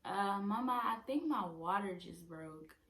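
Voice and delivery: re-enacted yell for mom; retold scream. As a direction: call out loud, imitating your own alarm. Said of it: "I was screaming".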